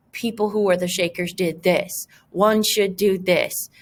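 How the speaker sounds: a hint of a stiff formal tone, reading out model sentences; formal academic tone. Shown as a demonstration. Teacher shows students how formal writing sounds, lightly stiff. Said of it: "that's how you're gonna sound".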